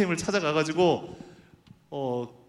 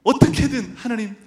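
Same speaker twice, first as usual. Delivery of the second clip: desperate prayer rising; 3 semitones higher than usual. Retold or imitated. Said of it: "막 이렇게 간절히 기도했거든요".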